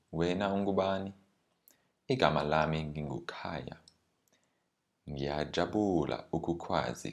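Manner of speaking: lightly acted textbook dialogue, two speakers voiced by one; model dialogue reading. Scripted model dialogue read aloud.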